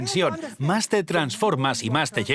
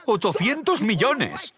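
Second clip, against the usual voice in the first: higher, slower, marvelling; stunned amazement; 7 semitones higher, slower than usual. Retold or imitated. Man repeating the sum he received, marvelling. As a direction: repeat it as if you still can't believe it.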